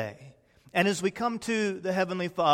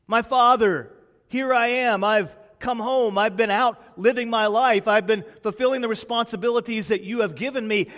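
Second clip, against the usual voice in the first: raised, eager homecoming plea; a child calling Father; 6 semitones higher, 5 dB louder than usual. Retold or imitated. Child coming home calls eagerly to Father. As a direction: call out to your father, glad to be home.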